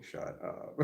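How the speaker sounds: hushed imitation of a shout; mock enthusiastic yell. Quoting the lawyer in the head, hushed mock yell. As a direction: act out a yell with the volume held down. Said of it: "very enthusiastically saying".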